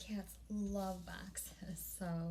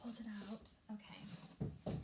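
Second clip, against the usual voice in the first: unvoiced whisper, much softer; whispered narration; 8 dB quieter than usual. Real, not acted. Vlogger pulling item from box, whispering. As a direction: hush down and breathe the words.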